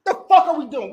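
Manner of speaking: loud, high laughing disbelief; laughing shout. Real, not acted. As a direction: yell it through laughter in disbelief.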